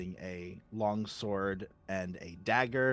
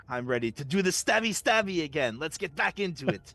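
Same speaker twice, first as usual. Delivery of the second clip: eager; 6 semitones higher than usual. Acted. Sasori eager to fight.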